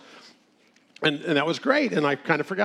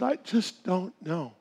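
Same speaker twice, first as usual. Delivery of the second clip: helpless sad sigh; 3 semitones higher, 5 dB quieter, slower than usual. Retold or imitated. Widow's helpless final words.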